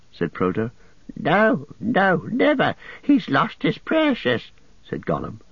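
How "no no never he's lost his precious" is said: much higher; desperate refusal. A narrator's reading. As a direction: Gollum frantic. Gollum voice held.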